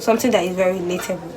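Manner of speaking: fast, brushed-off repeat; quick repeat. Shown as a demonstration. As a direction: rattle it off quickly.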